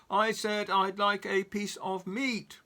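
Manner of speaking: slow loud roar. Acted. Mister Noisy roars at Mister Bacon, slow and loud. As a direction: roar it out slowly. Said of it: "roared Mister Noisy".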